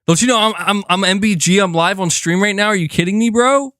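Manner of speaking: mock arrogant. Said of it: "I should have said".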